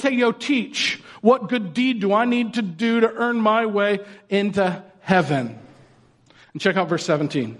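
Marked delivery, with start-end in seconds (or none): 0.0-5.6 patronizing. Retold or imitated. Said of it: "the guy was being a little patronizing".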